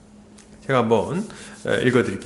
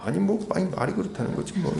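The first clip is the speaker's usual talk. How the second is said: softer, timid retreat; meek backing down; 8 dB quieter than usual. Retold or imitated. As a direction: shrink back and mumble an excuse. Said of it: "깨갱하는 겁니다".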